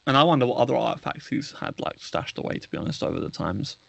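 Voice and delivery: talking around a boiled sweet; words muffled by a mouthful; mouth full. Real, not acted. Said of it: "are you eating and talking?".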